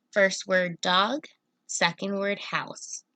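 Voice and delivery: slow, split into "dog" and "house"; slow breakdown. Shown as a demonstration. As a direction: separate "dog" from "house" slowly. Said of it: "compound word was doghouse".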